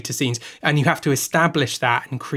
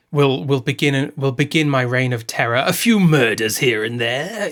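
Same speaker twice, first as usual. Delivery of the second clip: casual villain quote; 3 dB louder than usual. Retold or imitated. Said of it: "He, he says things like".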